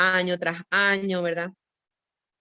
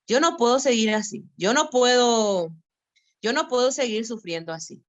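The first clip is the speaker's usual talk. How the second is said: desperate plea; 3 semitones higher, 3 dB louder than usual. Retold or imitated. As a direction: cry out that you can't go on, leaning on each "no". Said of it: "¿Cuántos años me tomó poder entender eso?". (súplica desesperada, más fuerte y lenta, marcando cada "no")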